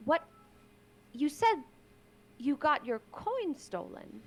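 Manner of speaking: lightly hammed-up courtly apology; a hint of overdone gallant contrition; theatrical apology. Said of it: "in a caricatured, theatrical way".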